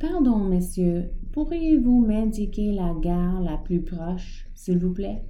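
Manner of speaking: petite voix très aiguë. Acted. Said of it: "une petite voix très aiguë".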